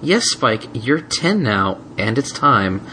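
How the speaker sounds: slow, grave reassurance; solemn and gentle. Acted. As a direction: break it gently. Twilight solemn.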